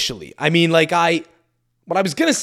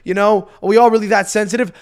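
higher-pitched, irritated challenge; annoyed; 7 semitones higher, 3 dB louder than usual. Retold or imitated. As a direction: act out protesting everyone's touchiness. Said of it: "I was a little annoyed by that".

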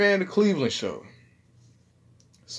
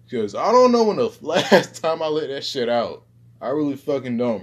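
hood voice; 3 semitones higher, 7 dB louder than usual. Shown as a demonstration. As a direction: switch into your loud hood voice. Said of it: "add some hood ghetto-ish shit to this".

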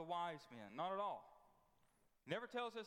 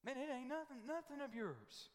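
rising preaching; 7 semitones higher than usual. Real, not acted. Preacher rebuking the church, raised and urgent. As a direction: pitch jumps up, hammering the point.

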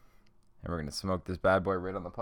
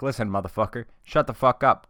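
loud, forceful mock confrontation; mock telling-off; 4 semitones higher, 7 dB louder than usual. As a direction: play at shouting someone down. Acting out telling someone off.

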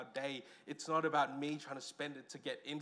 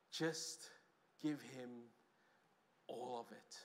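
softer, dropping to almost nothing by the end; hushed plea; 6 semitones lower, 11 dB quieter, slower than usual. Pretend. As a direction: let the words sink away into a hush. Pleading Jesus's call, first take.

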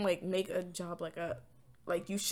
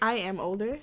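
laughing; 7 dB louder than usual. Real, not acted. Laughing reply.

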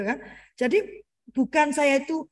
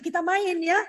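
put-on higher, lilting promise to a child; playful reassurance to a little one; coaxing parent; 5 semitones higher than usual. Shown as a demonstration. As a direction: coax sweetly with a lifted ending.

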